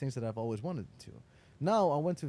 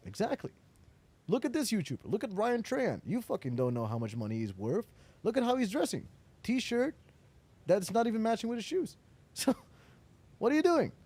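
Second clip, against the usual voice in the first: lecturing; 5 semitones higher than usual. Retold or imitated. Editor lectures him, retold.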